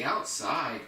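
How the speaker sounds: "outside" drawn out with a swooping fall; stress on OUTSIDE. Shown as a demonstration. Trainer teaching a dog a cue word, emphasized "outside". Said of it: "Start emphasizing the word outside".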